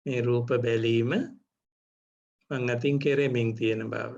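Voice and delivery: measured meditation guidance with long pauses; guided meditation. Real, not acted. Teacher leads meditators to notice seeing, guided meditation. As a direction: guide them phrase by phrase, leaving room to observe.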